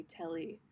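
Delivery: "telly" in her own Australian accent, TEL-ly; Australian slang. Shown as a demonstration. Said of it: "we say".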